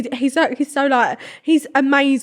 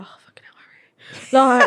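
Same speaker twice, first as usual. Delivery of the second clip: breathy unvoiced sigh over a crush; hushed lovestruck groan; swooning whisper; much faster than usual. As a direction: whisper it like you're melting.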